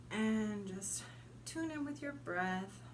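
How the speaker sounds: unhurried meditation guide, long pauses between phrases; guided meditation. Acted. Guide leading listeners to send roots into earth, meditative. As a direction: guide listeners gently inward, letting each image settle.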